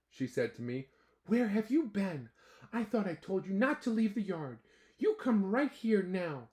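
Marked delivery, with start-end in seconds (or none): 1.3-6.5 stern mom. Acted. Mother scolding son.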